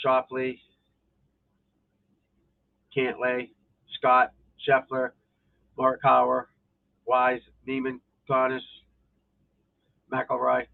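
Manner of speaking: flat, even robot monotone. Real, not acted. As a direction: read the names like a robot. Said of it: "Sound like a robot".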